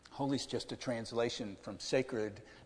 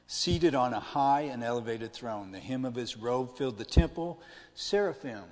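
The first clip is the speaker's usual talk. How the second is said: louder, declaimed Bible reading; scripture reading; 6 dB louder than usual. Acted. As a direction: read the verse out firmly to the group. Reads scripture to group.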